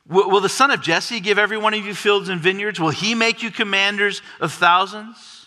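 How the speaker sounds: a paranoid king pleading for loyalty; complaining king. Acted. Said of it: "begins to complain to his troops".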